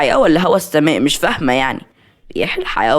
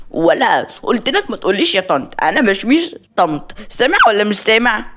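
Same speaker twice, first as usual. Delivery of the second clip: higher-pitched, mildly angry telling-off; irritated scolding; 6 semitones higher than usual. Acted. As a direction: scold the child in exasperation. Maria scolds the child.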